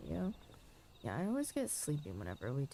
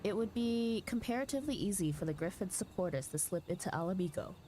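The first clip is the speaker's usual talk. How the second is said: lightly voiced commanders, a touch higher with alarm; urgent fantasy dialogue; 4 semitones higher than usual. Streamer voicing battle news in the cutscene, lightly urgent commanders. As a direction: sound the alarm like a knight at war. Voices game characters aloud.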